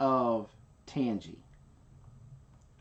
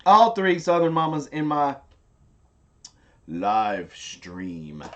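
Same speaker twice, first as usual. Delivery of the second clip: excited; 5 dB louder, slower than usual. Real, not acted. Thrilled at guests on stream.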